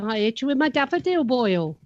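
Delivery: lilting attempt at a Carmarthen accent. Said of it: "near as I can get to".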